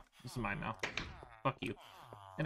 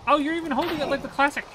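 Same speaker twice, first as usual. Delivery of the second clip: high excited rant; 8 semitones higher, 3 dB louder than usual. Real, not acted. Mocking the old boat.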